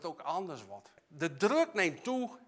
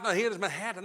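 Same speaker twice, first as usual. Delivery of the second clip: half-hearted reciting; 2 semitones higher, 4 dB louder, faster than usual. Shown as a demonstration. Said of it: "niet in die turbulentie moet zoeken in je Bijbel".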